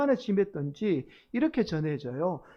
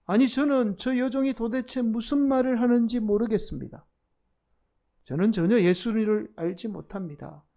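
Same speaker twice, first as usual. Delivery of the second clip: raised, higher-pitched protest; loud denial; 4 semitones higher, 4 dB louder than usual. Acted. Peter denying before all the bystanders, moderately raised outcry. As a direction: cry out a denial for all to hear. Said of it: "큰 소리로 외쳐요".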